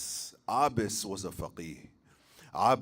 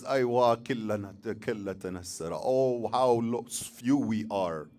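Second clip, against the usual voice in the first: loud cry of grief that breaks off; anguished lament called out loud; painful cry; 4 dB louder than usual. Acted. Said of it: "lets out a sarkhat".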